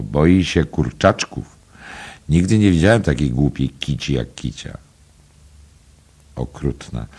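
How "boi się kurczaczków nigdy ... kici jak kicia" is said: teasing. Acted. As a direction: tease the cat gently, drawing it out. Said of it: "powiedział przekomarzająco".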